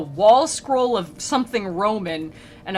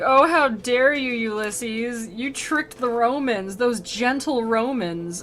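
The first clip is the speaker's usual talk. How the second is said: slow, wounded scolding; theatrical reproach, drawn out; mock indignation; 3 semitones higher, slower than usual. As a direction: scold with hammed-up outrage. Dante scolding Ulysses, acted.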